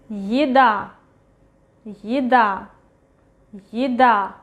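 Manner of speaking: Еда with unstressed Е as a short yi, stress on the final a; reduced initial Ye. Shown as a demonstration. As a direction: say еда as yi-DA, modelled for learners. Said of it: "Ye is not stressed".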